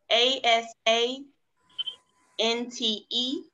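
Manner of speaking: slow letter-by-letter spelling; spelling out slowly. Shown as a demonstration. Teacher spelling for students, slow and clear. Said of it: "I can spell it out for you".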